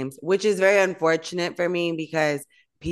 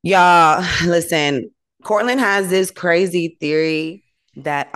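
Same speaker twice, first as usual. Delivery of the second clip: much louder, announcing to the room; calling out; 7 dB louder, slower than usual. Real, not acted. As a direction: grab everyone's attention. Calling listeners to attention.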